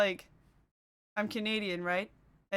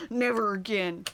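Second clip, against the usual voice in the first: slow, drawn-out retold refusal; emphatic vow; 4 dB louder than usual. Streamer recalling one bad veggie patty, emphatic vow. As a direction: stretch it out after a laugh.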